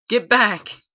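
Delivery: loud, harsh command to back off; barked yell. A narrator's reading. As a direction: bark the order at them. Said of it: "More suits yelled".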